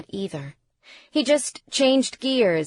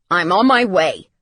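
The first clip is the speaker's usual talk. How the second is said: loud, decisive reply; forceful, hurried assurance; urgent promise; 8 dB louder than usual. A narrator's reading. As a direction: promise help at once. Father rushing to the accident.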